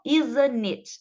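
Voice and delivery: ISN'T IT slowed, the T dropped, "izn-it"; swallowed T. Shown as a demonstration. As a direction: stretch "isn't it" and skip the first T. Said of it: "meio que vou comer esse T". (T engolido, bem devagar)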